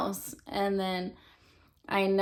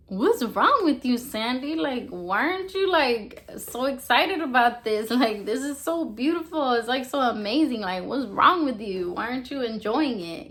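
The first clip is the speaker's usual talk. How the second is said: higher-pitched imitation of an annoyed friend; mock exasperation; 4 semitones higher, 3 dB louder than usual. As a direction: retell his mild scolding, pitched up. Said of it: "he was getting mad at me".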